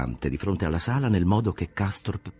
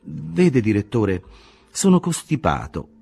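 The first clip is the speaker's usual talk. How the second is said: lifted, higher youthful voice; young patient Castorp, much higher; 7 semitones higher, 5 dB louder than usual. A narrator's reading. Castorp explains his cold to the director, higher voice. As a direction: sound younger and pitched up, a little plaintive.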